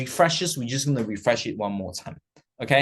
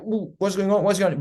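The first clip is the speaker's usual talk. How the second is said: higher, mildly flustered questioning; acted nervous alarm; 5 semitones higher than usual. Trader watching the chart move, mildly alarmed. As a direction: imitate a jittery trader.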